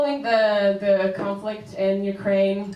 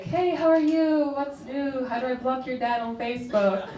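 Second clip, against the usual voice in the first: higher, breezy mom greeting; light and breezy; 4 semitones higher than usual. Retold or imitated. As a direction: imitate mom opening a video call lightly. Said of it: "she'll start off really light".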